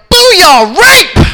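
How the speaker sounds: loud, high triumphant catchphrase yell; triumphant whoop at being proved right; excited shout. Retold or imitated. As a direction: holler it high like a winning boast. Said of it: "I got all excited".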